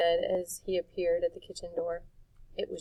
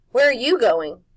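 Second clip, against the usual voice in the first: loud higher questioning; Jive voice; 5 semitones higher, 12 dB louder than usual. A narrator's reading. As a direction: call after him.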